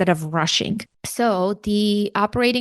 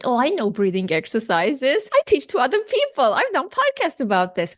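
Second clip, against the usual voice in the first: retold protest, rising much higher; 4 semitones higher than usual. Patient telling the nurse she knows breathing, protesting. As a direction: insist you already know, pitched up.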